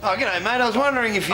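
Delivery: broad Aussie twang; Australian accent. Acted. A fake Aussie greets the barman in Australian accent. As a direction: put on a thick Australian accent. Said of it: "Are you Australian?".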